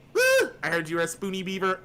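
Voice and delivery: a high whoop, then lightly voiced cartoon beaver; Daggett. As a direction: whoop loudly, then greet as an excited cartoon character. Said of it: "talking as Daggett the entire time".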